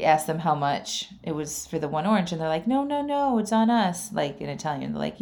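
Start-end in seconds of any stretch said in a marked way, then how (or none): 2.7-4.1 higher-pitched friendly insisting; imitating vendors refusing payment; generous refusal. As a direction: wave off the money, voice lifted.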